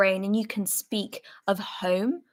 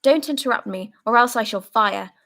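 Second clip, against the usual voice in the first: hoarse, emotional rant. Acted. Soldier raging at comrades who talk of home, hoarse fury. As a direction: spit out the anger and fear. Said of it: "hoarse and quivering with emotion".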